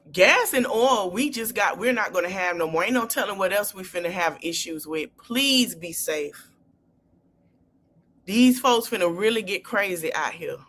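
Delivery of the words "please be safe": slow it down and mean it; sincere plea. Real, not acted. Telling women viewers to stay safe, slow and sincere. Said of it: "pleading with listeners".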